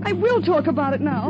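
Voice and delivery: firm stress on WILL; insist, leaning hard on the word WILL; insistent. Acted. Woman refusing to be silenced by her lover, insistent.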